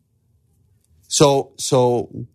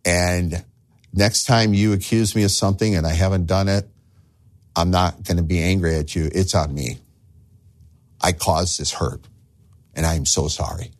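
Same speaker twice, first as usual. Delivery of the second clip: apology to wife; 2 semitones lower than usual. Retold or imitated. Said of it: "go back to your wife and say".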